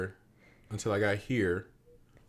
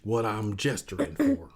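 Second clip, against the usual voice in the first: put-on Southern accent. Shown as a demonstration. Showing how locals make sure you understand, Southern accent. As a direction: imitate an over-careful Southern explainer. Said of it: "they talk like this".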